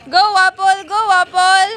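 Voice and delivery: loud cheer for Apple; root loudly for her. Real, not acted. Cheering for a dog.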